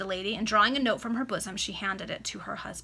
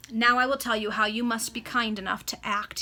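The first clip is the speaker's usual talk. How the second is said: commanding; 5 dB louder than usual. Acted. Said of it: "in a tone of command".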